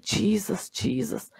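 softly imitating a weak, breath-starved plea; faint cry. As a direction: call out weakly with little voice left. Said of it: "cried out in that little bit of that voice".

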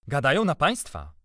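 high, loud reporting; insistent old servant. A narrator's reading. Old servant answering master about gossip, insistent. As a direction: announce the scandal with emphasis.

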